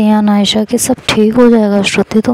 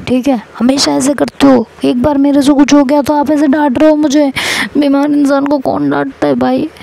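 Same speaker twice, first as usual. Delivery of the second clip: higher, whiny protest; sulky complaint; 5 semitones higher than usual. Acted. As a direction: pout it out like a hurt wife. Shruti sulking at scolding husband. (रूठी हुई, ऊँची आवाज़ में शिकायत)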